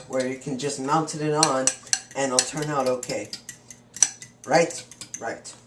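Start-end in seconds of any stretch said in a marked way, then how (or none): 5.2-5.5 quiet. Real, not acted. Muttered answer to himself.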